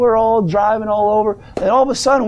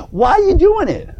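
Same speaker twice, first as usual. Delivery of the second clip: preaching challenge; 9 semitones higher than usual. Real, not acted.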